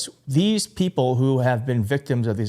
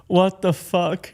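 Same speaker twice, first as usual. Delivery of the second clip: disbelieving exclamation; 5 semitones higher, slower than usual. Real, not acted. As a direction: let the disbelief burst out. Stunned reaction to clip.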